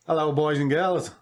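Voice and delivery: put-on hushed, breathy-free whispered kids host greeting; overbright kids party host. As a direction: whisper it like a cheery children's host.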